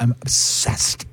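slow "obsessed" with a long hissed middle "s"; imitated over-articulation. Imitating a mom of a Gen Z daughter, slow stretched "obsessed". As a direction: draw out "ob-SSSESSED" in imitation. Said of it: "I know someone that does that".

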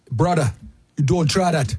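lightly voiced, badly faked Hawaiian accent; a clumsy mock Hawaiian warning; terrible Hawaiian accent. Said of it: "That's my terrible Hawaiian accent".

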